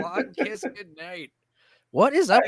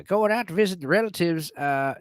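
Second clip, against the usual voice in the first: lightly voiced uncle telling a joke; Uncle Dickie. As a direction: spin a yarn as a folksy uncle. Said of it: "joke my Uncle Dickie told me".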